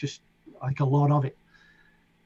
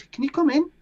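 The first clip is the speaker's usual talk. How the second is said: quoting John Barlow; 12 semitones higher than usual. Retold or imitated. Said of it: "And he goes".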